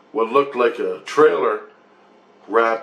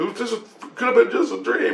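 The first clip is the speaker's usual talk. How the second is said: lightly voiced Grace; 11 semitones higher than usual. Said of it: "and he goes".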